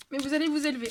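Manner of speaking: burp slipping out mid-phrase. Real, not acted. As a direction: speak through a small burp. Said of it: "Oh pardon, j'ai roté".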